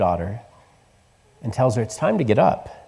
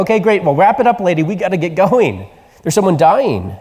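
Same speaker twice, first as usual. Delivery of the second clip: impatient hurry-up; 4 semitones higher than usual. Retold or imitated. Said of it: "they're like".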